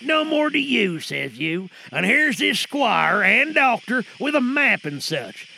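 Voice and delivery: a lightly voiced old sea dog plotting; muttering pirate, half menace; lightly played pirate in a radio drama; pirate sailor. Actors perform pirate scene.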